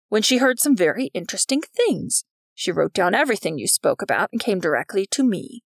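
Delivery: a hint of a pompous accuser, pitch swinging; lightly voiced vice principal. McGuckin reporting what Polly overheard, lightly voiced accusation.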